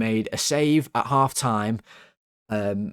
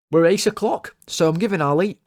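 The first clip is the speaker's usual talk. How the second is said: higher and louder, bursting with glee; excited cheer; 7 semitones higher, 4 dB louder than usual. Real, not acted. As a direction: blurt it out, thrilled. Celebrating his team.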